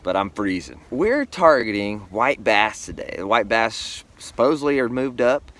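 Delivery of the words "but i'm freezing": muffled through a face shield; talking behind a plastic visor. Real, not acted. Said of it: "I apologize for the face shield".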